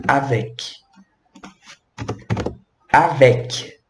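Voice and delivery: Avec said slowly, hard k at the end; French avec. Shown as a demonstration. Teacher showing students how to say Avec. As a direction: model Avec syllable by syllable. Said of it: "como que a gente pode pronunciar".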